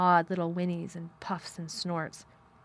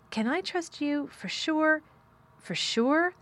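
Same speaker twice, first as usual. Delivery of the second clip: imploring plea; 8 semitones higher, slower than usual. Acted. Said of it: "she implored".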